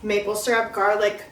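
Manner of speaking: talking while chewing; mouth full. Real, not acted. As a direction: speak through a mouthful of food. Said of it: "Sorry, I'm talking with my mouth full".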